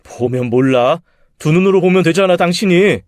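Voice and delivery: irritated husband. Acted. Husband snaps at wife.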